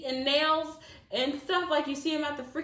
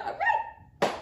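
high whispered all right; stunned whisper. Retold or imitated. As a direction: breathe it out in disbelief. Stunned reaction to driver leaving.

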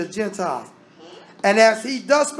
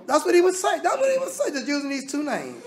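high, laughing aside; 6 semitones higher than usual. Real, not acted. Preacher laughing at his own Biden-Obama retelling. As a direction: laugh at your own comparison.

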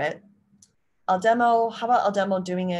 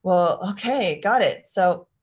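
upbeat suggestion; 2 semitones higher, 6 dB louder than usual. Shown as a demonstration. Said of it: "you might say something like".

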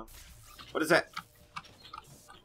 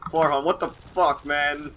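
exasperated; 4 semitones higher, 7 dB louder, slower than usual. Real, not acted. Blaming friend after death.

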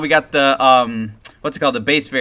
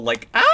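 cheerleader squeal; 3 semitones lower than usual. Retold or imitated. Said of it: "A little cheerleader".

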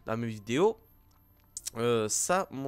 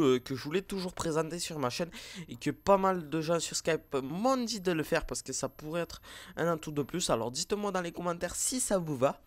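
crazy side voice; 4 semitones higher than usual. Pretend. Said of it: "je reviens au clair".

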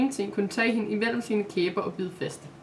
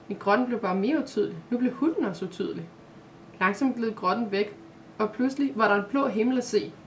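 calm storybook reading voice; story narration. A narrator's reading. Narrator reading a children's story aloud, calm. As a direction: read the tale gently to listeners.

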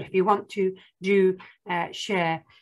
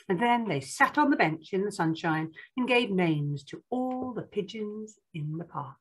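picture-book narration. Acted. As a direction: read it to small children, spacing out the count.

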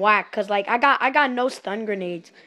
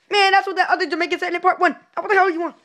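loud, high and fast, through a laugh; laughing rude shout; 7 semitones higher, 5 dB louder, faster than usual. Acted. Cashier mocking a returning customer, laughing loudly. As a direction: yell it while cracking up.

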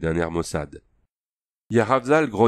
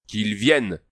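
growled; slower than usual. A narrator's reading. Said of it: "grogna Yaravzal".

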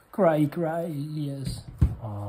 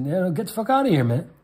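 mock angry brush-off; 5 semitones higher, 3 dB louder than usual. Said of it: "I said".

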